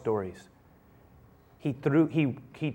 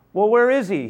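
father urging; 7 semitones higher, 5 dB louder than usual. Acted. Father demanding.

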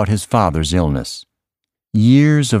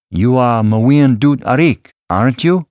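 eager questioning; 7 semitones higher, 5 dB louder than usual. A narrator's reading. Salva seeks confirmation from father.

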